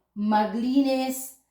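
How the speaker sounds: maglinis said slowly, each syllable clear; teaching pronunciation. Shown as a demonstration. Teacher showing students how to say maglinis, slow and clear. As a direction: spell out maglinis slowly for the class. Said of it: "So, but we say".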